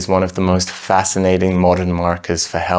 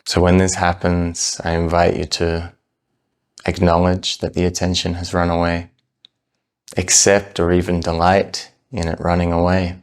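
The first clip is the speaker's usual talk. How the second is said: calm, unhurried meditation guidance with long pauses; measured, soothing meditation-teacher delivery; guided meditation. Real, not acted. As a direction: ease them gently into the practice, leaving space between phrases. Leads a breath meditation.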